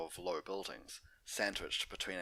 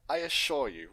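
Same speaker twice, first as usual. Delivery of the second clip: whispered reassurance; 7 semitones higher, 9 dB louder than usual. Acted. Doctor reassuring.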